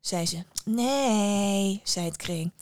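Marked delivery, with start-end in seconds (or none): 0.6-1.8 sulky refusal. Acted. Sulky daughter refuses her mother.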